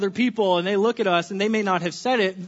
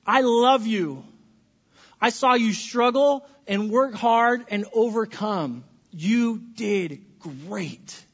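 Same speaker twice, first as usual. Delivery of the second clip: slow, tender parent praise; slow, loving words from parent to child; much slower than usual. Shown as a demonstration. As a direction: speak slowly and gently to your child. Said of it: "We can say".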